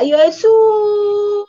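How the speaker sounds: high, long-held call to Jesus; retold desperate cry. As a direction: cry out the name, stretching the last vowel. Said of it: "Jadi kami itu teriak". (seruan panjang minta tolong, nada tinggi)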